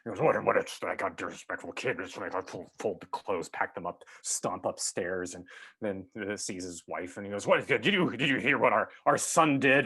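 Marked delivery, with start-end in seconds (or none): 0.2-5.3 mild mock fury, muttered; fuming rant. Father fuming to himself after his son leaves, mild mock fury. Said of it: "The father's in this storm of fury". 7.5-9.9 higher, louder indignant complaint; indignant outburst. Retold or imitated. Father venting to his wife about their son, indignant. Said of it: "The father's in this storm of fury".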